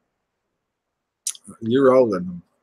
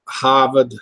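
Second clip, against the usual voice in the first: trying Maine accent; 2 semitones higher, 3 dB louder than usual. Shown as a demonstration. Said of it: "I'm getting this, y'all".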